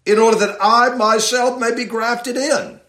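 "I" rises and is leaned on; stress on I. Shown as a demonstration. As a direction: hit "I" hard in the middle of the line. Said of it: "the "I" is emphatic".

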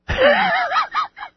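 very high-pitched giggle; high, tittering laughter; amused laugh. Real, not acted. Laughs when caller stays silent.

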